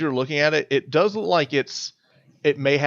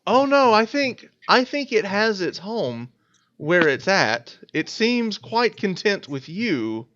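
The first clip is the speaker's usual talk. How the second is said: nervous refusal; 6 semitones higher, slower than usual. Acted. GM voices NPC declining.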